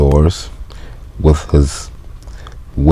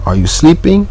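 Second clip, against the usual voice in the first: mailman yelling; 12 semitones higher than usual. Acted. Mailman yelling for the janitor to wake. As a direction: holler for the sleepy janitor.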